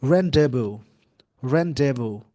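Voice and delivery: rendezvous said as "रान-डे-वू", silent z and s; careful pronunciation demo. Shown as a demonstration. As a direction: spell out rendezvous slowly as rahn-day-voo, no final s. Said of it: "इस word का pronunciation होता है". (rendezvous का सही उच्चारण, z और s बिना)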